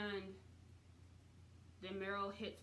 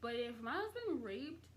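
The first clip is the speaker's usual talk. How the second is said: sassy; 5 semitones higher than usual. Real, not acted. Imagining betrayal by friend.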